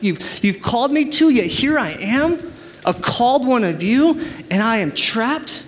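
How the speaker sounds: imprisoned apostle crying out to God, heartfelt; Paul praying from prison. Acted. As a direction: plead with God, then feel trapped. Voicing Paul's prayer from prison.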